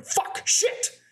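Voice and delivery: "Fuck, shit" spat out in voiceless bursts; percussive, whispery "Fuck, shit"; sharp repeated cursing. Retold or imitated. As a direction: replay "Fuck, shit" as two hissed, hard-stopped words. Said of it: "I just kept going".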